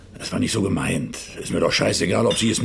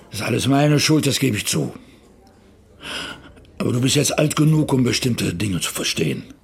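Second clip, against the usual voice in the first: raised voice; 2 semitones higher than usual. Acted. Father defends himself heatedly.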